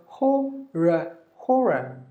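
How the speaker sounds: HORROR slowly as "ho, ruh", then joined; two syllables. Shown as a demonstration. Teacher modelling horror with silent R, careful pronunciation. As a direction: sound out HORROR with no final R. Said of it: "Two syllable".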